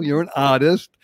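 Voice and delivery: "artist" said as "ahtist" with the r dropped, Boston style; Boston accent. Shown as a demonstration. Host showing off his Boston accent to the guest, saying "artist" without the r. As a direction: drop the r in "artist" like a Boston local. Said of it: "I can do the accent still".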